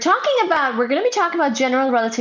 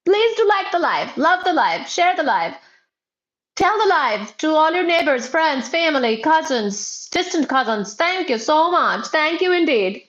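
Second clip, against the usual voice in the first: excited calling out; 4 semitones higher than usual. Real, not acted. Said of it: "I'm mainly screaming at the new people".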